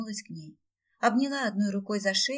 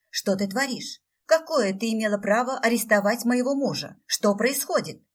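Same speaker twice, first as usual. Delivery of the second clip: indignant demand; 4 semitones higher, 6 dB louder than usual. A narrator's reading. Heroine confronts her sister.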